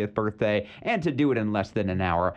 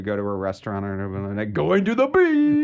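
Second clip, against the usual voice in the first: surfer dude; 4 dB louder than usual. Acted. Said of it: "spring the surfer voice on 'em".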